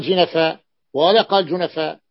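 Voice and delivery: جنفاء voiced with i, then with u on the jim; rejected vowellings. Shown as a demonstration. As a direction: contrast جنفاء as jinafa, then junafa. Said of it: "قال بفتحات".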